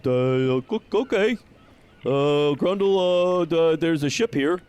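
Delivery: jittery watchman caught off guard; nervous Huxley. Acted. Nervous Huxley stammers at the guard, high and flustered.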